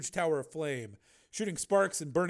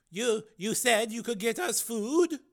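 higher, slow timid question; stammering frightened dweller; 9 semitones higher, 5 dB louder, slower than usual. A narrator's reading. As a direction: ask hesitantly, scared.

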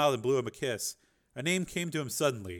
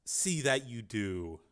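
slow low menace; 3 semitones lower, 5 dB quieter, slower than usual. Acted. Boss dismisses son.

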